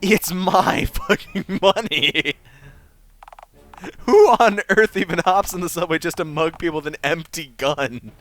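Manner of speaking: loud, high, outraged rant; indignant rant. Acted. Paying caller berating the operator, loud and outraged. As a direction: tear into him, offended. Caller rants about his money.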